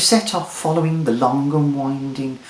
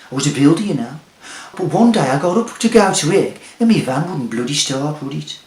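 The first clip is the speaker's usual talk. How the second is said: scruffy local bloke; 3 semitones higher, 5 dB louder than usual. Acted. Local bloke tells his story.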